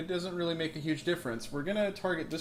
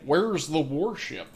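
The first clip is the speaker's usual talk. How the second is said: loud, slow demanding captain; stern captain voice; 6 dB louder, slower than usual. Pretend. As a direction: demand it like an old sea captain. Captain demanding target in-game.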